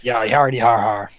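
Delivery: dry mock pirate har-har; half-hearted spoken pirate laughter. Pirate player answers the boss's teasing, mock laughing.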